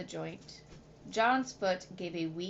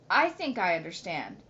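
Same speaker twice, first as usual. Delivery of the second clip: sharp interruption; 4 dB louder than usual. Acted. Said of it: "Mister Midas broke in sharply".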